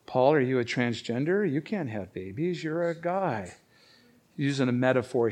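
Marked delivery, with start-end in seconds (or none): 0.1-3.5 mock heckler. Mock heckler questioning Paul.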